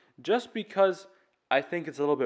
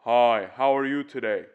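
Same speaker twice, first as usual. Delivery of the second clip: lifted soft palate; 2 semitones lower than usual. Shown as a demonstration. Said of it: "Lifting the inside of your mouth".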